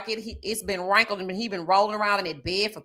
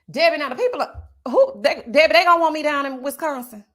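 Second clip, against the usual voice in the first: excited mock brag; 5 semitones higher, 5 dB louder than usual. Mock boast about being wanted.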